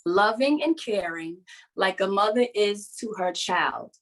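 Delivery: slow, measured poem reading; slow heartfelt memorial poem; poem recital. Acted. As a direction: recite it gently, letting each line land. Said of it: "And it goes like this".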